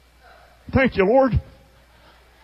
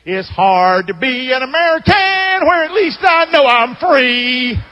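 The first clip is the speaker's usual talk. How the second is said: a lightly voiced mock complainer, a bit louder; the speaker's impression; 3 semitones higher, 4 dB louder, slower than usual. The speaker mocks the retiree as they leave, in a lightly hammed complainer voice. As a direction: ham up the griping with a sneer. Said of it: "Charlie's doing this".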